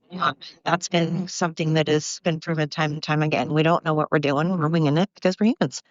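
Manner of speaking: winded from walking; puffing between words; out of breath. Real, not acted. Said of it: "I'm out of breath".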